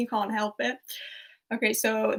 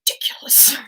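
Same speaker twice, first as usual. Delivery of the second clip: whispery imitated disdain; disdainful; 3 dB louder than usual. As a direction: spit out the word as a mock aristocratic villain. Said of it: "can't quite do it with as much disdain".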